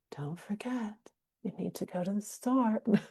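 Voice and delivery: very soft, quiet, gentle, unpushy delivery. Demonstrating how a reminder sounds, softer voice. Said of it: "voice is softer".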